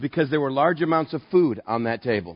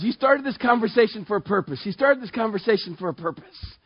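higher, insistent conscience; little inner voice; 6 semitones higher than usual. Acted. Inner voice reminding the pastor of his purpose, higher insistent nagging. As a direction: repeat it as a small, pitched-up inner nag. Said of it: "this little voice goes".

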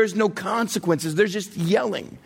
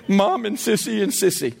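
put-on small child. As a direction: answer dad like a dutiful toddler. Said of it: "he's two and a half".

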